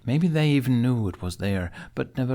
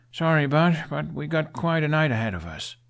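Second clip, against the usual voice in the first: bright cheerful coaxing; 7 semitones higher, 3 dB louder than usual. Acted. Hiccup cheerfully rousing his dragon.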